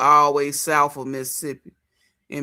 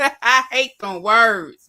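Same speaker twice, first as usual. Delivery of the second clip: laughing; 5 semitones higher, 7 dB louder, much slower than usual. Real, not acted. Laughing while ranting about words.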